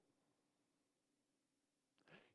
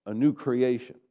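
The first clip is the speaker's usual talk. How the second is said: louder, lifted, meaning every word; believing declaration; 4 semitones higher, 9 dB louder than usual. Shown as a demonstration. Pastor modelling how to say it with conviction, emphatic. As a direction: declare it like it's true. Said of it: "say it like you believe it".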